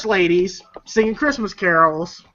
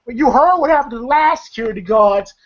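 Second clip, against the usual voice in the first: lightly acted warning, slightly raised pitch; cautioning retelling; 4 semitones higher than usual. Craig warning Day Day about the guards, mildly cautioning. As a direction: imitate a friend urging caution.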